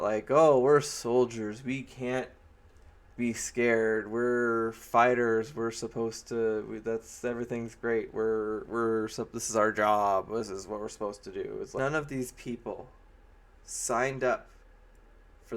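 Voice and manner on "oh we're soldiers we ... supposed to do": hammed-up brave-soldier speech; mock pep talk. Mia Jovovich rallying the soldiers, mildly mock heroic. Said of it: "Mia Jovovich says something about".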